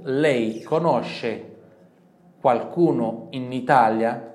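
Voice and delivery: very slow, loud, stretched; slow model question. Shown as a demonstration. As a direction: drill the question slowly. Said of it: "De novo". (pergunta lenta e alta)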